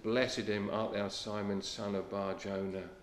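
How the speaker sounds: soft, low and tender; blessing him gently, no reproach; gentle Lord. Acted. The Lord gently blessing Peter, soft and tender. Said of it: "How gently the Lord deals with him".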